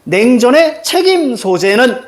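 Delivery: teacher reading a key phrase slowly; demonstrated reading. Shown as a demonstration. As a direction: draw the phrase out for the class. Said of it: "어떻게 읽을래?".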